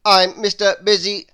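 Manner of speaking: bustle in and announce yourself; Mister Busy introducing himself, loud and brisk; brisk busy man. A narrator's reading. Bossy busy character introduces himself.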